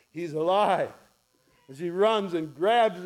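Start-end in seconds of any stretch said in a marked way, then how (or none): 0.1-0.9 louder, lifted declaration; the realisation bursting out; joyful repeat. Acted. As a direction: say it out with rising joy. Repeated with growing joy.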